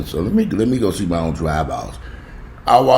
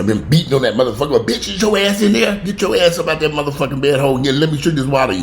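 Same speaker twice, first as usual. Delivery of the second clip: cussing her out; 6 semitones higher than usual. Retold or imitated. Ordering her sister out of bed, cussing her out angrily. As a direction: switch to a harsh scolding. Yelling at sister after sweetness.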